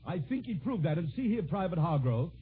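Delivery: earnest, measured tribute without the clowning; sincere introduction. Real, not acted. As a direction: drop the comic mask and speak as a proud father. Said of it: "permit me to drop my comic mask".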